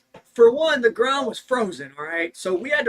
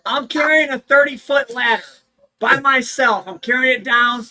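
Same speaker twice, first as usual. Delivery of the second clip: usual speaking voice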